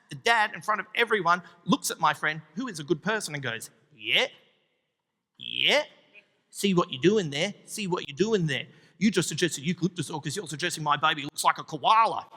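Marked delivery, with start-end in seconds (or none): 4.0-12.3 low, sarcastic dad; a hint of a bitter father; mild mock snap. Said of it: "The dad snaps".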